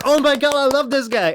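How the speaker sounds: squealing high and loud; gushing fan. Pretend. Viewer won over by the video, squealing loud. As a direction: gush like a delighted fan.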